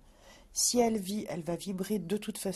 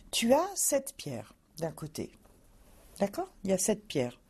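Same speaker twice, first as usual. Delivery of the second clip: slow and patient. Real, not acted. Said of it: "Lentement. Gentiment, tranquillement".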